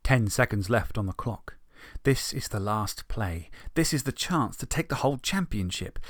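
storyteller building to the big play; story narration. A narrator's reading. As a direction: narrate the tense final play.

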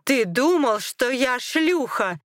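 high, loud outraged cry; screaming in anger. A narrator's reading. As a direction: cry out the accusation. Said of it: "закричала она".

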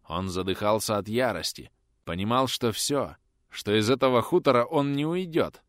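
usual speaking voice

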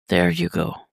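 near-whispered comfort; murmur. A narrator's reading. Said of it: "Damien murmurs".

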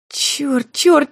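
high, rising cry of panic; panicked cursing. Acted. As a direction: curse in sudden alarm. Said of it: "в панике смотрит на меня". (в панике ругается)

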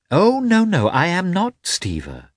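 wife's friend bristling, annoyed denial. Acted. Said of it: "Anna was annoyed".

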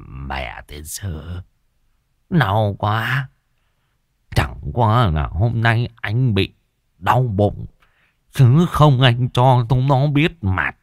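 slow, moaning, self-pitying man; whining in pain. Acted. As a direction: groan and simper to the pretty neighbour. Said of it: "mà mếu máo". (rên rỉ mếu máo)

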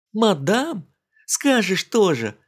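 high mocking scoff; mocking snort. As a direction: scoff at being called madam. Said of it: "насмешливо фыркнула она". (насмешливо фыркая, высоко)

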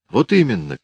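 put-on high little girl squeak. Girl backs up her point, high squeak. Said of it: "пискнула девочка".

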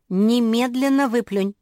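high, loud urgent command; shouted order. A narrator's reading. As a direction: cry it out sharply, acting an outraged sister. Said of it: "крикнула Жози". (громкий возмущённый крик)

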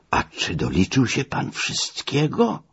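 high, slow teasing query; malicious question. Acted. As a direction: needle him with a drawn-out question. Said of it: "zapytałem złośliwie". (złośliwe, przeciągłe pytanie)

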